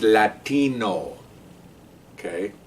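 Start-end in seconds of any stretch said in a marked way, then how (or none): 0.0-1.2 stretched, exaggerated Latino pronunciation; slightly hammed-up Latino inflection; mock Latino accent. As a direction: lean hard on a Latino accent. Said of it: "Latino is how he talked".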